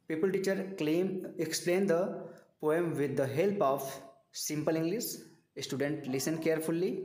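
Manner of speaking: very slow, word by word; spelling it out slowly for note-taking; slow dictation. Shown as a demonstration. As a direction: read it out like dictation to students. Dictating a lesson plan.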